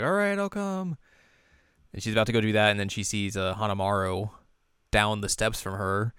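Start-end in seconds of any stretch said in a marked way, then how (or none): 0.0-1.0 much higher, obliging; agreeing Yohane. Retold or imitated. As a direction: chirp a quick yes. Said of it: "She's like".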